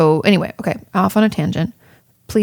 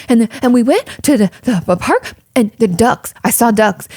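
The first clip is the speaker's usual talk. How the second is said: lightly imitating a kid gasping out a story; a hint of a breathless little kid; breathless excited kid; 5 semitones higher, 3 dB louder than usual. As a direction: rush it like a child back from the park, out of breath. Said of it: "like, out of breath".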